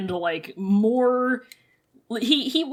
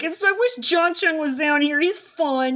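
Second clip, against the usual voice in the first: whiny complaint; 5 semitones higher than usual. Retold or imitated. Whiny Wei Wuxian.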